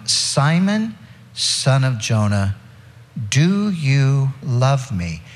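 drawn-out, heavy Simon, son of Jonah; slow it right down and let each word land; a deliberate, weighty slowing of the question; slow, pleading question. Shown as a demonstration. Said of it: "he said to him the third time".

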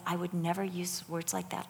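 retold correction, said softly; gentle motherly reproof. Retelling advice to a teenage girl, gentle motherly reproof. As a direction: keep the reproof soft and kind.

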